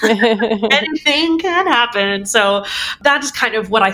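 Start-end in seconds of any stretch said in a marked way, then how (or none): 0.0-2.2 slow, otherworldly cosmic voice; voice of the universe. Retold or imitated. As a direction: speak slowly, like the cosmos itself. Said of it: "It's been the universe going".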